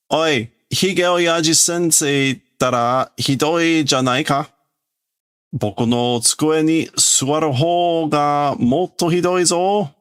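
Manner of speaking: a lightly voiced kid, pitched a little up and whiny; schoolboy complaining. Kid complains to teacher Hige Oyaji about the desk, lightly voiced whine. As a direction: protest like a cheeky schoolboy.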